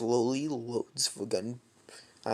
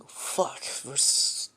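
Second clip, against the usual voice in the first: under-the-breath whisper; a whispered curse, thinking aloud; whispered inner curse. Acted. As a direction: hiss it to yourself, unseen. Deku's inner thoughts, caught.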